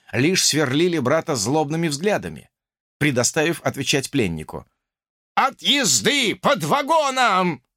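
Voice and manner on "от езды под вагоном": high, slow hollered proclamation; hallelujah cry. Acted. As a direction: holler it like a revival shout. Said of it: "завопил ... на манер возгласа «Аллилуйя»".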